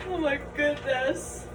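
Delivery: startled gasp. Real, not acted. Sneaking on phone, startled.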